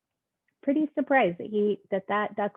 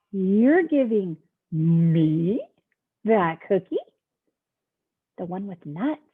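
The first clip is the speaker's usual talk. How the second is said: slow, drawn-out disbelief; disbelieving; 3 semitones lower, 6 dB louder, slower than usual. Acted. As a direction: stretch it out in wonder.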